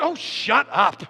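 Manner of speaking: slow, exasperated put-down; acted annoyance. Husband provoking wife to push, mock exasperation. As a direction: drag out a mock-irritated dismissal. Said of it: "Make her mad".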